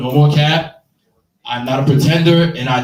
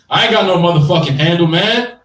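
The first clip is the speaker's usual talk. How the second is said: a bit faster, tough street dude brushing it off; mock-hard street guy, quick and dismissive; 3 semitones higher, 3 dB louder than usual. Comic telling the weed dealer off in a street dude voice. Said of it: "in my street dude voice".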